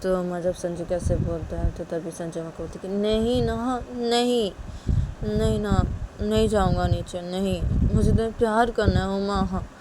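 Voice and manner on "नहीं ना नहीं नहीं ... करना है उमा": whiny refusal. Acted. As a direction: refuse like a pleading, clingy lover. Sanju refuses, begs for love. (हल्की ज़िद भरी, रिरियाती आवाज़)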